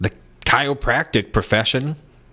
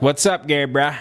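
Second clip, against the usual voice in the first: lightly mimicked bro voice; a touch of imitated bro greeting; joining the bro talk; 3 semitones higher than usual. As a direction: answer in a slightly raised bro voice. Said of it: "you have to join up with it".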